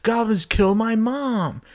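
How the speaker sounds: rising pitch, slowing into a wail; hurt bewilderment. Acted. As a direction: protest like a confused, wounded child. Max Gunn protesting to the Grinch.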